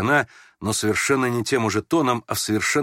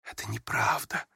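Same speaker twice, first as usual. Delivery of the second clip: much softer, nearly breathed «Это неправда»; almost whispered; 7 dB quieter than usual. A narrator's reading. Prince quietly contradicting the young woman, almost whispering «Это неправда». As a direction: say «Это неправда» under the breath, barely voiced. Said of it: "тоже почти шёпотом".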